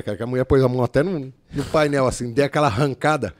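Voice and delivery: ordinary delivery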